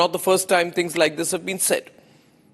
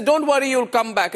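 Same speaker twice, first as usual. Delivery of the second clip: higher-pitched imitation of an imperious tone; 5 semitones higher than usual. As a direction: quote it as if lording it over him. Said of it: "And then the imperious tone".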